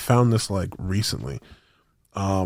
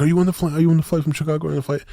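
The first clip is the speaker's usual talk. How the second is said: higher, anxious repeated asking; mock freaking out; 6 semitones higher, much faster than usual. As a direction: imitate a nervous dad pestering strangers. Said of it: "freaking out the whole time".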